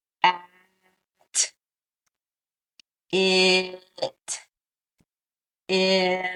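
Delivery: vowels stretched long in at, it, in. Showing how to blend the sounds by stretching them: stretched-out sounds. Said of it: "keeping those sounds stretched out".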